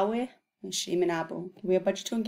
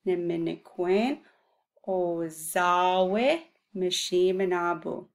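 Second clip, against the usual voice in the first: slow demo; slower than usual. Shown as a demonstration. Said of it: "that's how you would say".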